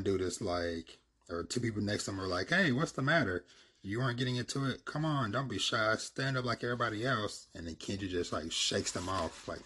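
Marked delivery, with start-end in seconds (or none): 2.5-7.5 high, loud, eager egging-on; pushy fan. Retold or imitated. People next to Kenji urge him to join in, high and eager. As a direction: hype up a shy guy.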